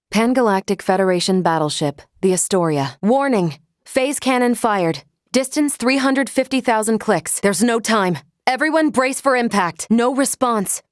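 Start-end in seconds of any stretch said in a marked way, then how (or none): 3.0-10.8 clipped, rising alarm calls; urgent alert. Acted. Android warning the crew of a battleship attack urgently. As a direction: report the incoming fire urgently.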